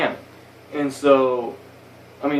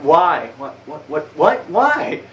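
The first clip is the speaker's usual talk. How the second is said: rising baffled whats; confused what; 3 semitones higher, slower than usual. Retold or imitated. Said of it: "And I'm just fucking confused".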